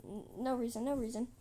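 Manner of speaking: nervous, stumbling brush-off; stuttering excuse. Acted. Trigger covering up to the queen, stuttering. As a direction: trip on the first sound. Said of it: "he starts stuttering and like".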